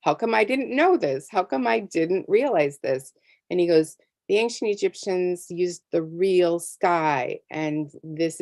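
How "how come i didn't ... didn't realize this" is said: retold frustration. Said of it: "I was mad because".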